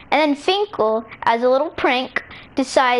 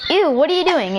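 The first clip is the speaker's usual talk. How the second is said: higher, mildly disgusted recoil; grossed out; 4 semitones higher than usual. Acted. Girl to boy puckering up for a kiss, grossed out.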